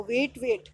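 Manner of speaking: "वेट, वेट" said exactly alike; two matching takes of "वेट", same vowel; identical pronunciation. Shown as a demonstration. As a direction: say "वेट" twice with no difference. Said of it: "दोनों वेट की pronunciation same है".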